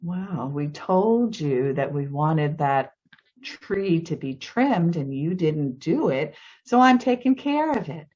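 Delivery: imitating a calm, unbothered neighbor; calm retort. Neighbor looking down at the homeowner, calmly justifying himself. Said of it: "he calmly says".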